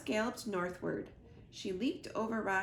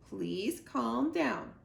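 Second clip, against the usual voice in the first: calm robot voice; much slower than usual. Acted. Robot soothes upset son.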